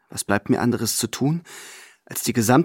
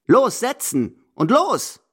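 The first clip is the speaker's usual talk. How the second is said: high, slow, impatient push; gruff urging; 11 semitones higher, much slower than usual. Acted. Grandmother urging her companion to bet, impatiently. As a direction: drive him on sharply, dragging it out. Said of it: "treibt sie mich unwirsch an".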